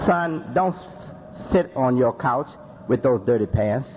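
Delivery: low, calm, patient instruction to a son; a parent steadily teaching a son; gentle parent. Shown as a demonstration. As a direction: correct the boy kindly, no anger. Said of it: "use this psychology".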